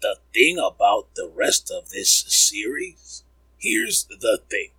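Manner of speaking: slow, measured pundit impression; Jalen Rose. Host resuming his impression, slow lightly mimicked pundit. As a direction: draw it out like a deliberating analyst. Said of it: "that's what Jalen always says".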